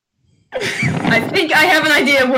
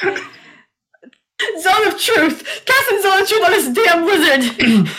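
laughing exasperated cry; 6 semitones higher, 4 dB louder, slower than usual. Real, not acted. Player casting spell, laughing frustration.

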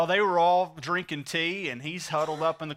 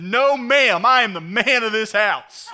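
loud, raised-pitch comic defiance; defiant shout; 5 semitones higher, 10 dB louder than usual. Acted. Husband refusing to come out of the closet, defiant shout. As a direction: holler back a proud refusal.

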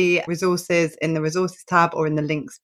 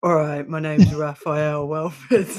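mock alter ego; slower than usual. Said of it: "put on a lower voice".

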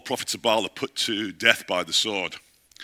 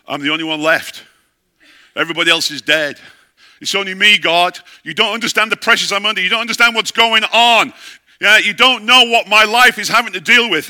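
higher, louder desperate complaint to God; emotional breakdown; 8 semitones higher, 11 dB louder than usual. Acted. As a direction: pour out the despair, rising in pitch. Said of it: "having a major emotional breakdown".

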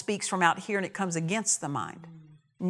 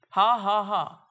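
put-on laugh; 4 dB louder, slower than usual. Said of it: "he started laughing".

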